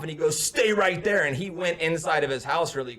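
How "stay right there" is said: mildly raised mock command; retold angry order. Storyteller as angry neighbor heading inside, mildly heated order. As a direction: imitate a mad man giving an order, a bit higher. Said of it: "he got really mad".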